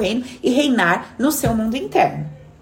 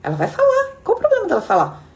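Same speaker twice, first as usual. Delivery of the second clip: retold advice. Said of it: "Eu falei".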